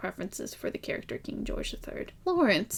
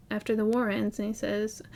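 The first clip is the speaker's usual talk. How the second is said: normal talking voice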